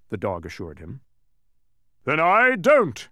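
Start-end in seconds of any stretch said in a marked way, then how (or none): 2.0-3.1 slow, high, thunderous refusal; thundering. A narrator's reading. Mathematician refusing to agree with Azaz, thundering. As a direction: thunder it out word by word. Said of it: "he thundered again".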